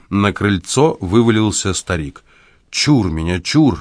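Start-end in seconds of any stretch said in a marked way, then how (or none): 2.7-3.8 put-on old man cries out in theatrical operatic style; cry in the style of a famous opera bass. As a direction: ham it up like an opera singer warding off a ghost. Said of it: "воскликнул он с шаляпинскими интонациями в голосе".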